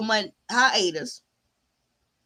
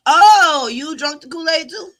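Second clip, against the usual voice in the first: mock surprise; 5 semitones higher, 8 dB louder than usual. Mock question to viewers.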